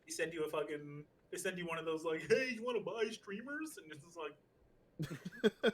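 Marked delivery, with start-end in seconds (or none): 2.3-3.8 high, chirpy salesy bot voice; spam bot. Pretend. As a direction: pitch it like a cheesy scam bot.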